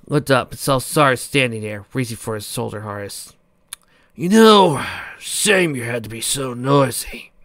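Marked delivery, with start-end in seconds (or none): 4.2-7.3 matter-of-fact. Acted. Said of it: "in a matter-of-fact voice".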